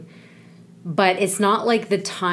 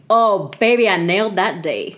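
excited; 4 semitones higher, 6 dB louder than usual. Retold or imitated. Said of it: "I'm like".

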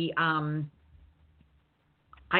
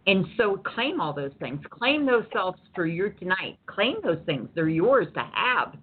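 preaching; 2 semitones higher than usual. Real, not acted. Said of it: "I'm done preaching".

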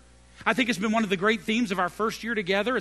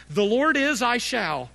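proclaiming; 4 semitones higher, 6 dB louder than usual. Acted. Preacher proclaims the refrain.

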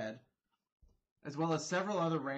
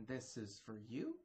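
calm; 3 semitones lower, 8 dB quieter than usual. Acted. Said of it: "very calmly just like".

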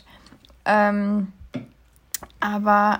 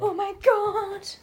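lachend entsetzt; 10 semitones higher, much slower than usual. Real, not acted. Tier im Zimmer.

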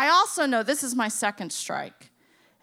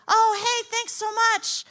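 chirpy thanks; 10 semitones higher than usual. Retold or imitated. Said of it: "he's like".

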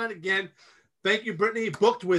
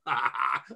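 short, low mock laugh; gloating laugh; 7 semitones lower than usual. Candidate after insulting his rival, gloating laugh. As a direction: laugh at your own jab.

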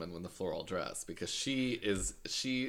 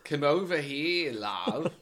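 mild Cockney; 4 semitones higher, slower than usual. Retold or imitated. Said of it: "That's just Cockney".

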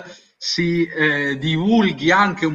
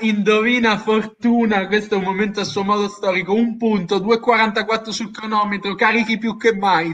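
showy game show host. Acted. Host building up next round.

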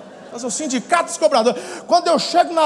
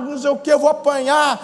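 ordinary delivery

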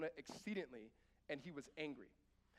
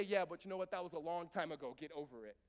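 mock dismissive God; 4 dB louder than usual. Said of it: "did God say".

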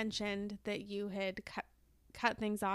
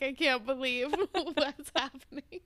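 laughing disbelief; 3 semitones higher, 4 dB louder than usual. Retold or imitated. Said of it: "She's, like, kind of like".

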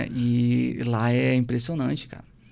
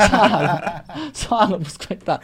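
amused, laughing as you speak; 6 semitones higher, 8 dB louder than usual. Real, not acted. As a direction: say it through real laughter. Laughing at his own anecdote. (falando entre risadas)

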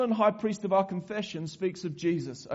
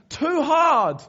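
louder, laughing "too hard"; laughing give-up; 8 semitones higher, 8 dB louder than usual. Pretend. Preacher jokes he'd quit leading them, laughing. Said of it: "I'd be like".

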